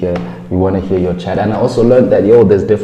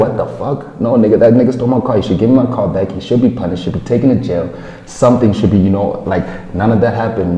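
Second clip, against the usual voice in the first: car theft victim venting at police, indignant; mock outrage. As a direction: rant like the robbed owner.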